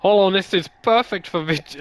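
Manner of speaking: slipping into Irish. Acted. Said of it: "You're going Irish".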